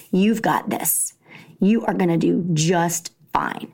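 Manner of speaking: hushed, calming; gentle whispered comfort. Retold or imitated. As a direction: soothe a scared child. Mom soothing nervous son.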